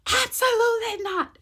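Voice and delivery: high, loud furious shout of no; loud, high irate doctor; doctor's angry refusal. Retold or imitated.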